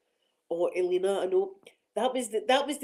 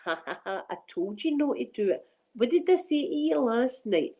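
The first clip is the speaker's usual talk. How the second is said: gloating inner self; 2 semitones higher than usual. Retold or imitated. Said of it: "that wee Linda will go".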